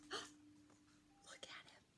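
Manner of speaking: awed whisper. Real, not acted. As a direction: gasp then slow breathy whisper. Gasping whisper at picture.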